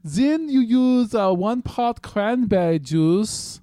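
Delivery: slow, loud mock German accent; high, very slow, hammed-up German accent. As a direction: belt out the recipe in a drawn-out German accent. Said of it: "If you're going to do the German voice".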